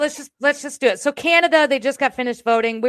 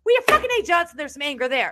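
higher, louder angry yell; angry outburst; 4 semitones higher, 5 dB louder than usual. Real, not acted. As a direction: let the anger burst out. Admitting her anger, shouting.

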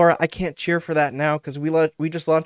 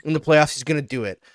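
fickle fan gushing. Retold or imitated. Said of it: "they're like".

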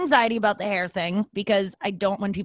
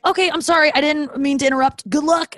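high, flustered backing-off apology; mock flustered apology; 9 semitones higher, 5 dB louder than usual. Date apologizing and wishing luck, high and flustered. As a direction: play him as embarrassed, hurrying away.

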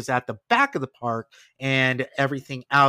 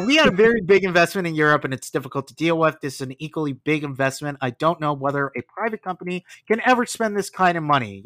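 Eisner impression; faster than usual. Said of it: "in the Eisner accent".

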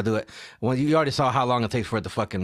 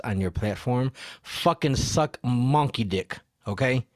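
put-on big boy voice; 3 semitones lower than usual. Podcaster addressing the distribution platform, big boy voice. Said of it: "I had to use my big boy voice".

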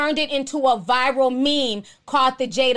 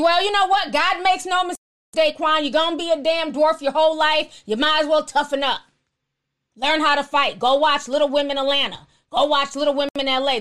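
mocking commenter. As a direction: sneer it like a cruel commenter. Imagined harsh commenter addressing Daquan.

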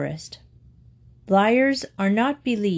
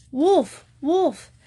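shouting for help; 8 semitones higher than usual. A narrator's reading. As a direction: yell it to the village. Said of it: "the shepherd boy again shouted".

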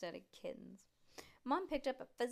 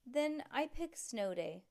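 put-on excited kid voice; 7 semitones higher than usual. Stink stammers high excitedly.

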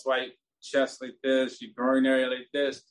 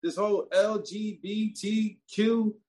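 retold fed-up rant; 6 semitones higher than usual. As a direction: vent like you've had enough. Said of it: "That's how fucking mad I was".

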